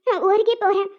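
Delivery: tearful, heartbroken protest; crying. Acted. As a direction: lament his suspicion through tears. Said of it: "கண்ணீர் எங்க இருந்து தான் வரும்னே தெரியல". (அழுகையோடு புலம்புதல்)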